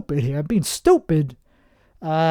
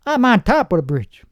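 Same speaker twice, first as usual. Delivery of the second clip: lightly put-on gangster, pitched up; 4 semitones higher than usual. Dealer telling a customer where he is, lightly voiced gangster. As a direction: boast it a bit like a street gangster. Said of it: "I sound like some gangster".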